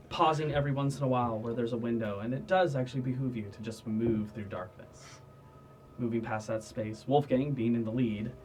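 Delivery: measured game master narration; scene setting. Acted. Game master guiding players through the dark, scene-setting narration. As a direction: narrate the party's passage through darkness.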